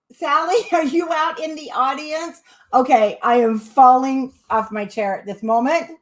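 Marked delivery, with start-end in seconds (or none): 0.1-2.4 laughing. Real, not acted. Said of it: "I cannot stop laughing".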